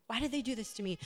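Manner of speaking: "Why did they do this to me?" as a mild angry outburst, stress on "did"; indignant protest, punch "did"; mock anger. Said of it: "And you're just angry".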